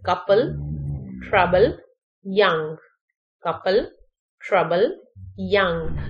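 put-on "Couple", "trouble", "young" with ou said as uh; short UH sound. Shown as a demonstration. Teacher showing learners the ou spelling, said as short uh. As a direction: model each word separately with a relaxed uh. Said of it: "ओ यू sound किसमें?".

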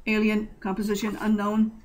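flat deep computer voice; computer monotone. Acted. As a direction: read it like a machine, no tune. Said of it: "The deep voice was monotone".

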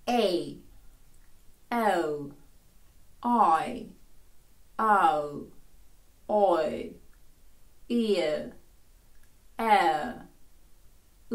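each vowel a drawn-out glide of two sounds, with gaps; voiced diphthongs. Shown as a demonstration. Teacher voices the existing diphthongs, isolated gliding vowels. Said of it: "Я просто озвучу ті дифтонги".

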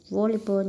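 Volleyball with the first syllable stressed; Volleyball, weight up front on VOL. Shown as a demonstration. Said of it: "nhấn âm một".

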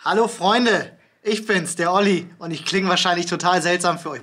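talking into a hollow lamp shade; hollow and boxy, like through a tube; tin can sound. Real, not acted. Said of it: "das klingt wie aus einer Blechdose".

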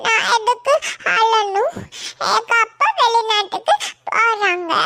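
laughing while saying it; carefree little boy, giggling. Acted. Boy laughing as he tells the relative his father is going abroad.

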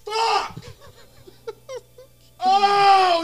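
high, loud curse of frustration; frustrated outburst. Real, not acted. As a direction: vent the loss. Losing, angry outburst.

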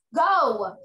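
loud one-word order; angry command. Acted. Teacher orders a pupil to the office, loud and angry. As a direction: send her out with a loud snap. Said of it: "she said real angrily".

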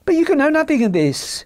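high-pitched anxious little man; nervous disbelief. Acted. Little man doubting the stranger's knowledge, nervous. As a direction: squeal out an anxious objection.

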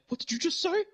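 high, offended clown disbelief; incredulous challenge in a falsetto clown voice; Ronald McDonald. Retold or imitated. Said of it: "and he's like".

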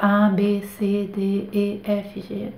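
letters fading softly into a mutter; murmured under breath. Acted. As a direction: recite them quietly, as if only in your head. Alphabet run silently in head.

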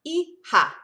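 hija said loud and high as EE-ha, the h breathy; hija, shown loudly to children; pronounced hija. Shown as a demonstration. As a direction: punch out hija as ee-HA with a strong h. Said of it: "It's like the letter E, and then".

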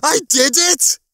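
high, loud triumphant shout; screamed. A narrator's reading. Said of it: "he screamed, not so quietly".

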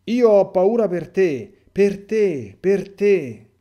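loud, high, slow cry of fear; fearful cry. Acted. Giovanni clings to Jesus's neck, crying out in fear. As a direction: cry out clinging to him, terrified. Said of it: "e grida".

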